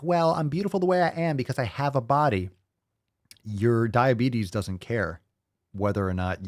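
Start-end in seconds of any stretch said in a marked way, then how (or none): 0.0-2.5 higher-pitched mocking quote; lightly put-on self-satisfied voice; mock self-affirmation. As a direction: parrot a smug affirmation, pitched up. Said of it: "and be like".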